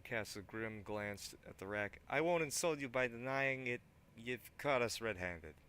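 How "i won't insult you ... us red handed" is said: higher, louder put-on thug. Thug eyes the weapon rack, loud put-on voice. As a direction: keep the thug voice going.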